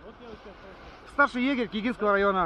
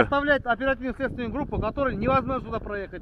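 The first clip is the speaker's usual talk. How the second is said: shouting match; 8 dB louder than usual. Real, not acted. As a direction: shout him down. Officer shouting back at filming driver.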